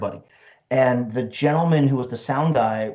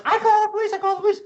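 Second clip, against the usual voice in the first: much higher mock accent, repeating the threat; high, insistent broken English of a foreign club owner; imitating club owner's accent; much faster than usual. Mock accented club owner threatening to call police. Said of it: "she's like".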